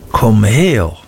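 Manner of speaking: lightly pressed, commanding voice; schoolmaster's strained order, lightly voiced; whispery schoolmaster. A narrator's reading. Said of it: "flüsterte Mister Creakle".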